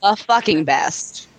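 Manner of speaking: low, slow and bored; unenthusiastic. Acted. Cohost reading the tagline with no enthusiasm, flat and bored. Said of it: "Can you say that with a little more enthusiasm?".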